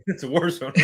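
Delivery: said through a laugh; chuckling while joking. Real, not acted. Laughs at the co-host's hiccups.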